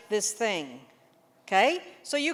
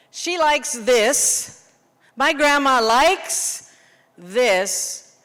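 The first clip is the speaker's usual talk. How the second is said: slow clue; 4 dB louder, much slower than usual. Shown as a demonstration. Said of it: "figure out the category".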